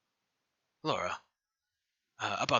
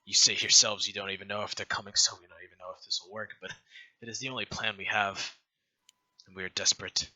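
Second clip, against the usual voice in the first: muffled, as if through a scarf. Acted. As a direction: talk through a cloth over the mouth. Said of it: "she has this very, uh, muffled voice 'cause she has, like, the scarf over her mouth".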